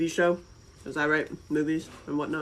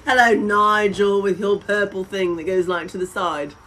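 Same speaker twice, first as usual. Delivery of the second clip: laughing mock greeting; 3 semitones higher, 8 dB louder than usual. Mocking her old fling Nigel, laughing loudly. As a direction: drag out a giggly hello.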